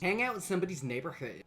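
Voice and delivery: badly faked American accent. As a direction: have a shaky go at an East Coast American accent. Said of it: "just not a good American accent".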